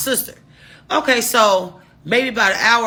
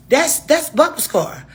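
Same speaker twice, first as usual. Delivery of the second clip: higher, slow shocked realization; surprised recognition; 8 semitones higher, slower than usual. Retold or imitated. To best friend, spotting Bubba's car, shocked. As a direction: point out the car in disbelief.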